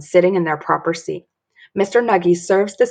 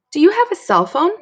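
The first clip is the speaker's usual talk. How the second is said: Mister Nuggy voice; 10 semitones higher, 4 dB louder than usual. Acted. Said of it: "asks Mister Nuggy".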